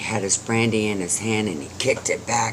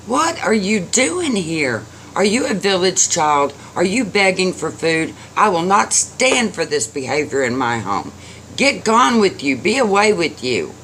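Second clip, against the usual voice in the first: high-pitched indignant scolding; grumpy, irritable; 7 semitones higher than usual. A narrator's reading. Old man scolds little boy at door, irritable. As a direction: scold and shoo away an intruder. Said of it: "the old man is grumpy and irritable".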